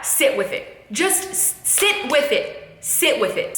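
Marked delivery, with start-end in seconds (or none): 0.0-0.9 breathy whisper of sit with it. Shown as a demonstration. Coaching a sad listener, whispered gently. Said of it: "the next time you're sad". 0.9-2.6 slow emphasis. Shown as a demonstration. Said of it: "the next time you're sad".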